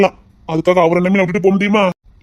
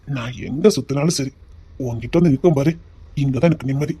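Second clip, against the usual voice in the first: tender. Acted. Romantic confession to wife.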